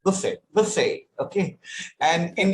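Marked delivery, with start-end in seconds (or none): 0.0-1.1 "Buffet" in British English, silent T; British pronunciation. Shown as a demonstration. Teacher repeating British English for the learner, British pronunciation. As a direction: say "Buffet" the British way, as BUH-fay. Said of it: "in British English, it is buffet".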